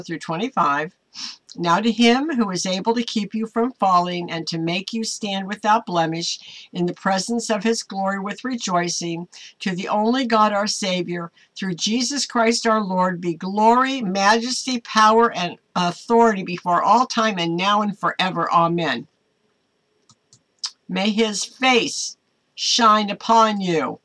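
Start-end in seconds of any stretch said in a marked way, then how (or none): 1.6-19.1 measured, formal Bible reading; scripture reading. Acted. Pastor reading the benediction to her viewers, reverent. 20.9-24.0 slow, gentle blessing. Acted. Pastor blessing her viewers, slow and gentle. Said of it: "repeated blessing".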